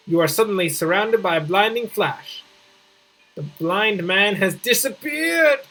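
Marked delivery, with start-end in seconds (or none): 3.3-5.6 surprised. Acted. Reading a dramatic game event.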